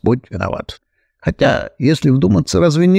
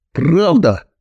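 delighted; 6 semitones higher than usual. Acted. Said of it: "обрадовалась Хремоножка".

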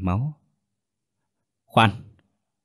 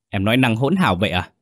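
snapping; faster than usual. Acted. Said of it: "tôi gắt".

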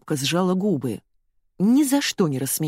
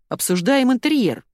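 firm reminder; 7 semitones higher, 4 dB louder than usual. A narrator's reading. Кеша steers talk back.

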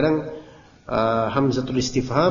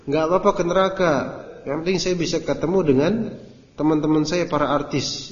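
higher mock celebrity voice; mocking the artist; 4 semitones higher than usual. Ustadz parodying a celebrity daring hell, higher mock voice. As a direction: parody the careless boast. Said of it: "Ini kan nantang".

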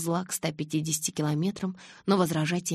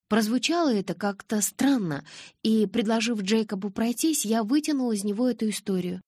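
higher-voiced girl owning up; repentant confession; 6 semitones higher than usual. A narrator's reading. Girl explains how she got the story, repentant. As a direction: confess it in a raised pitch, lightly acted. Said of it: "каялась я".

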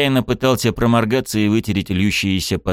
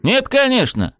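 high, sarcastic retort; grumbling; 3 dB louder than usual. A narrator's reading. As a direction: grumble back defiantly. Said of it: "проворчал я".

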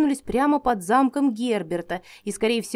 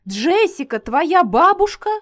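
astonished; 7 semitones higher, 6 dB louder than usual. A narrator's reading. Mage stunned by the news.

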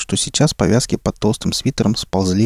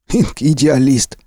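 slow sneering drawl, higher; mocking smirk; 5 semitones higher, much slower than usual. A narrator's reading. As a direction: sneer the nickname. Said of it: "усмехнулся везун".

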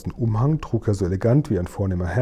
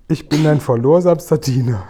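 courtly giant; 4 semitones higher, 5 dB louder than usual. Acted. Giant bows to the Queen.

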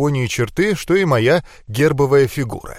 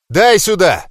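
loud, higher grab-it shout; snapping shout; 5 semitones higher, 6 dB louder than usual. A narrator's reading. Hero snatching the salt from the mage, shouting. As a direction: tear it out of his hands.

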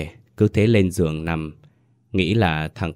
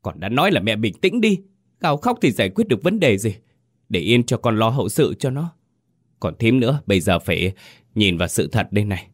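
snapping; 3 semitones higher than usual. Acted. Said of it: "Bỗng dưng Đại gắt lên".

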